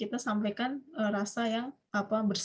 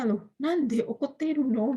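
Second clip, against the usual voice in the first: slow puzzled question; 3 semitones higher, slower than usual. Acted. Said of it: "misalnya tadi dia tanya alasannya".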